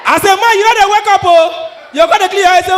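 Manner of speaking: ordinary talk, nothing marked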